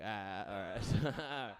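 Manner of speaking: very slow, drawn-out resigned ah all right; slow deflated acceptance. Retold or imitated. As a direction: let it sink in slowly. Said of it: "I was like".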